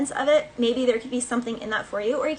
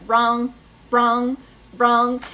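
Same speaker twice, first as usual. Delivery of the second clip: louder repeated wrong like a game buzzer; 7 dB louder, much slower than usual. Pretend. Spirit telling Pisces they're wrong, loud buzzer call. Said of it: "Spirit's like".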